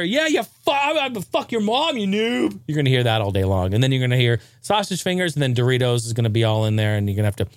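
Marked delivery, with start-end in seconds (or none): 0.0-2.6 put-on high, whiny online kid voice; mock a screeching teen gamer; trash-talking gamer. Imitating a kid trash-talking gamers online in a high whine.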